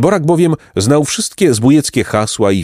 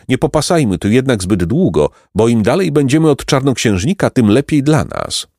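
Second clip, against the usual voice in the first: higher, wary explanation; lightly voiced boy; 3 semitones higher than usual. Boy explaining the way to the poor fellow, wary. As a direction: warn them to move on. Boy's character voice.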